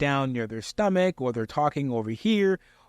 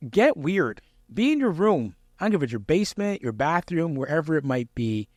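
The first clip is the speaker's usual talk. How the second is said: energetic urging. Real, not acted. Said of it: "urging to practice loudly".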